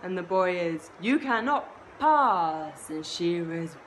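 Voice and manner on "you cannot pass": slow, louder, firm refusal; firm boy. Acted. Boy telling Shiva he cannot pass, firm and loud. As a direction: plant your feet and forbid it.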